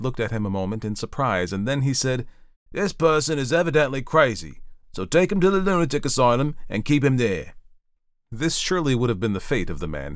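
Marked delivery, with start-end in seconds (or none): 2.7-7.5 high-pitched, emphatic judge; raised voice of official judgement; pronouncing magistrate. A narrator's reading. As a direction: hand down the verdict forcefully. Magistrate passes judgement on the man.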